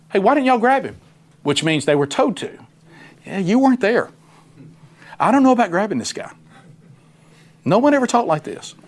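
high, incredulous soldier voice; officers' voice. Retold or imitated. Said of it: "You know what these officers are saying?".

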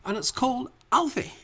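thick hammed-up Scottish accent; tipsy Scottish ghost rambling on. Ghost guest introducing the movie to the hosts, Scottish brogue.

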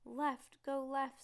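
loud, high urgent call; yelled directions. A narrator's reading. Kids yell directions to Rose while driving. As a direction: shout directions at the driver. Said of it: "said Judy and Stink as they yelled".

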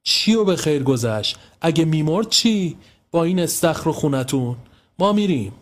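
angry. A narrator's reading. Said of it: "با عصبانیت گفت".

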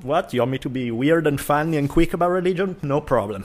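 high, bright eager acceptance; eager surprise. Retold or imitated. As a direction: jump at the offer, delighted. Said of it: "I was like".

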